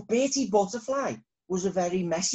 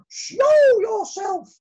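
very high, loud, slow command; demanding; 9 dB louder, much slower than usual. Acted. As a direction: order it with royal force. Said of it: "demanded Queen Bee".

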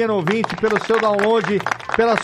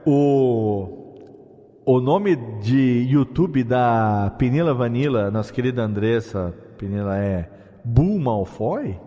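low, slow echoing announcer; drawn-out voice drenched in reverb; 8 semitones lower, slower than usual. Real, not acted. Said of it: "o reverb".

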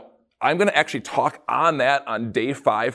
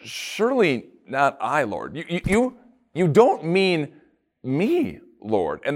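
slow, unsure, asking; a disciple asking Jesus, doubtful and slow; questioning surely not I; slower than usual. Retold or imitated. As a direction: plead your innocence as a question. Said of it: "says it with a question".

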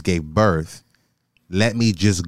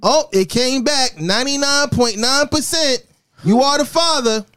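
talk-show reveal. Pretend. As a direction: announce the result like a TV host. Mock talk-show paternity reveal.

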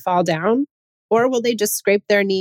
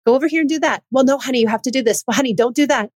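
mom correcting daughter; 5 semitones higher, faster than usual. Retold or imitated. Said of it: "she was like".

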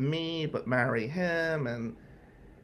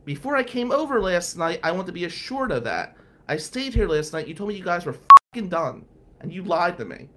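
angry accusation; 4 semitones higher, 5 dB louder than usual. Retold or imitated. Girlfriend confronting him over ex.

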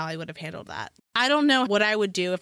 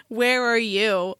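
baffled driver; 3 dB louder, slower than usual. Retold or imitated. Retelling baffled delivery driver's call.

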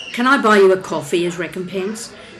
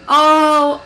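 surprised oh; 8 semitones higher, 8 dB louder than usual. Acted. Recognizes stranger bumped before.

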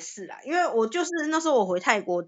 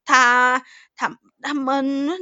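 nurse stumbling over name; 3 semitones higher, 4 dB louder, much slower than usual. Retold or imitated. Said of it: "就假如举例啊".

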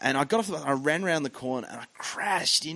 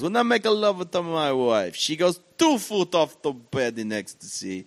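put-on Italian accent; 3 semitones higher than usual. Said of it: "The Italian goes".

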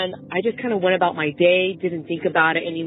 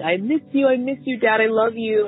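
retold crying plea; 2 semitones higher than usual. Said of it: "I just kept saying".

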